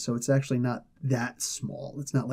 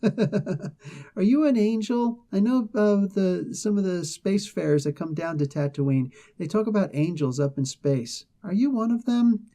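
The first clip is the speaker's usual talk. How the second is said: mock kid voice; 5 semitones higher than usual. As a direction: ask in awe like a naive little boy. Imitates a Star Wars kid, then "Shut up, Annie.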